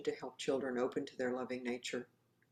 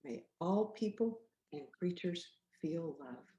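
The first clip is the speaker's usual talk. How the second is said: gentle recital. Shown as a demonstration. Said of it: "Saying that together too".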